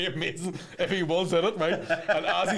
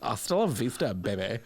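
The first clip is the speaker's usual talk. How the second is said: Kim Kardashian as Terminator; 6 semitones lower than usual. Pretend. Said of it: "What other movies could they be in?".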